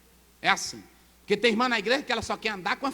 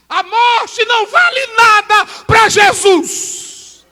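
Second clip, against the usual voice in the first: slow, much higher and louder proclamation; preaching shout; 12 semitones higher, 15 dB louder, much slower than usual. Acted. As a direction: proclaim it with full force. Preaching climax.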